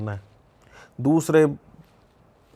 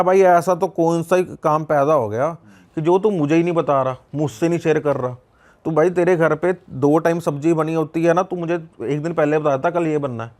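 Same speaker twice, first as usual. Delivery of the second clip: raised, louder mock scolding of a friend; retold anger; 4 semitones higher, 3 dB louder than usual. Friend ignores him for three days, so he vents in retold anger. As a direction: replay the hurt outburst at the absent friend. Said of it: "तीसरे दिन तो मुझे गुस्सा आ गया".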